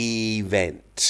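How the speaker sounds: event with the stress early and a final T; repeat after me. Shown as a demonstration. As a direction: say event clearly for students to copy. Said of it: "ลองพูดตามผมนะ".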